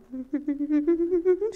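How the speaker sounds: high stuttering shiver noise; imitated shaking. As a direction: judder wordlessly, too nervous to talk. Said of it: "I can't even talk".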